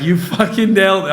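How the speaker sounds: imitating a hyped-up friend; buddy cheering him on, excited; excited quote. Retold excited compliment.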